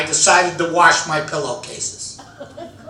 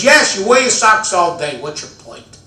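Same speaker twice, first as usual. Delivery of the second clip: impatient wife, a touch sharper; mock exasperated wife; 2 semitones higher than usual. Wife loses patience with the socks talk, mildly exasperated. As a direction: repeat it with growing impatience. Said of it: "She's already frustrated".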